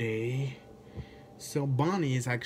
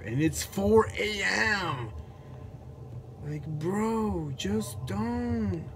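much higher, frightened squeal; panicked; 8 semitones higher, slower than usual. Real, not acted.

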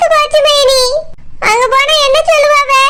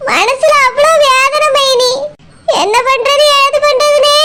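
crying. Acted. Confessing her grief, crying.

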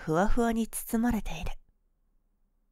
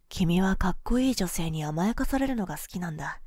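ordinary delivery

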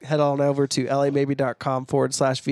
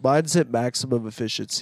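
no nose voice; 2 semitones lower than usual. Shown as a demonstration. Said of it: "talking where you don't use your nose".

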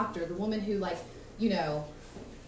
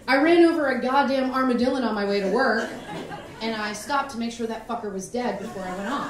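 louder, laughing mock sentence; laughing through it; 7 dB louder than usual. Comic using mom's word in a sentence, laughing. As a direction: read it out while cracking up. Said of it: "So I'll use it in a sentence".

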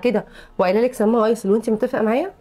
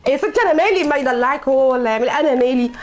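exasperated protest; 3 semitones higher than usual. Acted. Wife protests loudly.

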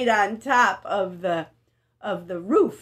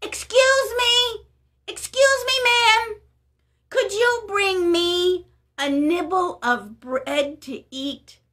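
much higher, louder call, slow on the request; calling after her; 7 semitones higher, 4 dB louder than usual. Acted. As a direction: call out to someone walking away, high and loud. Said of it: "He called after her".

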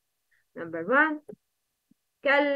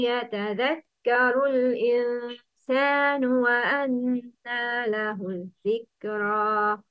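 measured Quranic chant; Quran recitation. Shown as a demonstration. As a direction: recite with long held vowels.

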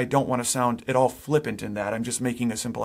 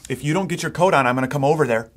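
mild mock threat; 5 dB louder, faster than usual. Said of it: "but don't threaten".

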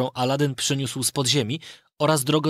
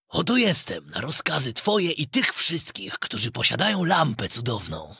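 spirit's voice; 2 semitones lower than usual. Acted. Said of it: "zawołał głosem potężnym i dźwięcznym".

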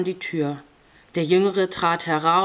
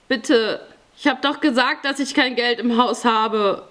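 higher, urgent protest from a victim; frightened, higher-pitched plea; desperate pleading; 6 semitones higher, 4 dB louder than usual. A narrator's reading. Robbery victim pleading with intruders.

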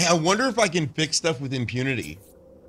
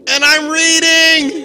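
haunting voice; 10 semitones higher, 7 dB louder than usual. Pretend. Playing ghost, drawn-out.

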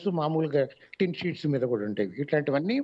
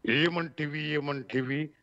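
a light hint of a grand, solemn film hero asking ఏమంటివి; lightly voiced stately hero declaiming ఏమంటివి; Rama Rao impression; much slower than usual. Shown as a demonstration. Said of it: "రామారావు గారి లాగా ఇలా చెప్తే".

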